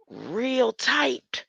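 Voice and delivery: breathy high whisper. Real, not acted. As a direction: hush it, high and tight. Whispering about the storm eye.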